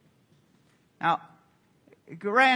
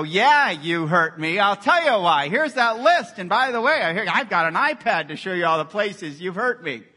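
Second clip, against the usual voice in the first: louder, building indignant list of hurts; mock grievance; 5 dB louder than usual. Pastor acting out a vengeful reply to someone, loud mock grievance. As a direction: rub it in, piling up the complaints. Acted revenge speech to offender.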